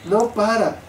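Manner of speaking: «no para» dicho entre risas, lento; ríete mientras repites «no para»; riendo. Real, not acted. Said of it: "¿Para qué decir?". (riéndose de la lengua que no para)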